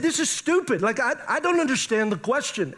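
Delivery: high, exasperated complaint; frustrated. Retold or imitated. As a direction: act out being visibly frustrated. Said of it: "I'm frustrated, visibly frustrated".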